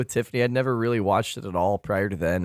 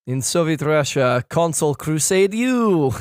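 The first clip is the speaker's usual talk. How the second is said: put-on Russian accent; 3 semitones higher than usual. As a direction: deliver the Soviet Russia gag in a light Russian accent. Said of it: "Chris do a Russian accent".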